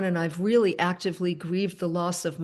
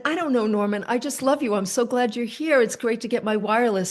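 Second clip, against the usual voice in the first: higher, eager gush of affection; gushing fondness; 3 semitones higher than usual. Retold or imitated. Telling Norman she loves him, a higher, eager gush. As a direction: pour out gratitude a bit giddily.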